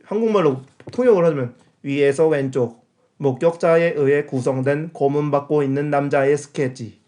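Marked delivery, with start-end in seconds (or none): 1.8-7.0 slow flat robot voice. Shown as a demonstration. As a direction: read it like a robot audio guide. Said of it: "로봇 목소리로".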